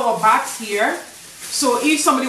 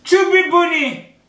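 mouth full; 7 semitones higher than usual. Real, not acted. Cheeks full, shouting phrase.

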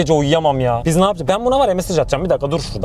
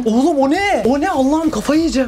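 frightened; 6 semitones higher than usual. Real, not acted. Seeing something in the stairwell.

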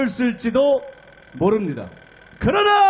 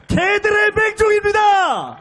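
shouted climax; 4 semitones higher than usual. Real, not acted. Rally climax line.

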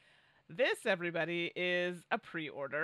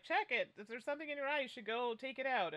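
lightly higher quoted voice; mock-concerned retelling, pitched up; imitating co-host; 6 semitones higher than usual. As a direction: nag helpfully in a higher voice. Retelling co-host's advice.

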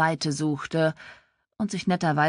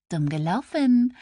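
higher, teasing gloat; a little gloating; 7 semitones higher, 3 dB louder than usual. A narrator's reading. Sister teases sister in trouble, slightly gloating. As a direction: needle her with mild glee. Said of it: "flüsterte Claire ein wenig schadenfroh".

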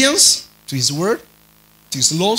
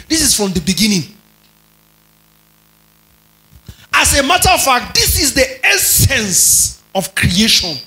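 preaching; 4 semitones higher than usual. Acted. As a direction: declare it emphatically to the congregation. Preaches at full force.

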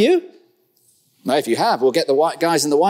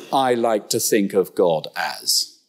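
slow, lower, mocking the smug phrase "I like to think of God as"; mock arrogant quote; 5 semitones lower, slower than usual. Preacher mocking people who shape God to taste, slow and scornful. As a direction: drawl it out like a self-satisfied know-all. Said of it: "the arrogance of the".

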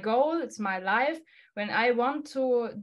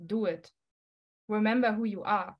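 inner encouraging voice; 2 semitones lower, 3 dB quieter than usual. Retold or imitated. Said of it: "My voice said to me".

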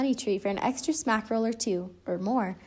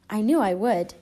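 gopher voice; 4 dB louder than usual. Acted. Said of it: "Gopher snickered".

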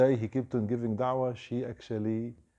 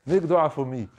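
mock crying with joy; 4 semitones higher than usual. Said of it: "And he's crying".

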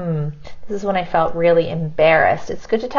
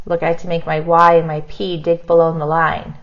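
normal talking voice

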